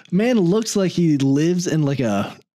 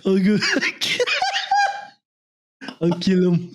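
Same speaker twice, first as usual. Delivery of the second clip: bad Trump impression; 4 semitones higher than usual. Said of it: "Sounded like, uh, Sylvester Stallone".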